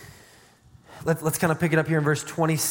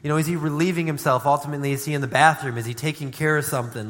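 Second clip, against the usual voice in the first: mocking; faster than usual. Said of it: "kinda mocking them".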